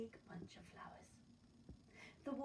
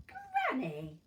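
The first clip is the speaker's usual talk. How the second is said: put-on wondering girl; 13 semitones higher, 11 dB louder, much slower than usual. Girl notices the ears.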